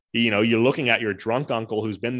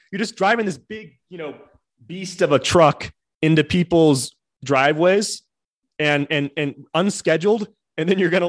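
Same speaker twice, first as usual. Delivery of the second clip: indignant rant; 4 semitones higher, 7 dB louder than usual. Pretend. Continuing rant at firemen.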